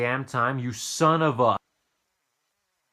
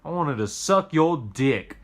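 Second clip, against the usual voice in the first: disappointed customer; 5 semitones higher, 7 dB louder, slower than usual. Retold or imitated. Customer replies, voiced in story.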